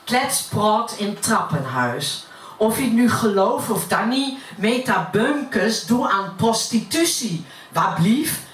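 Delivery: gossiping neighbour in Utrecht dialect; broad Utrecht accent. Acted. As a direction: recite it as Utrecht stairwell gossip. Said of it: "dat heb ik naar het Utrechts vertaald". (roddelend in plat Utrechts)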